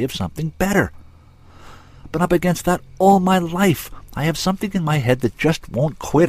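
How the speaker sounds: frustrated man venting, emphatic and animated; mounting indignation with emphatic bursts; angry inventor. Acted. Inventor admitting his lifelong anger to her, impassioned.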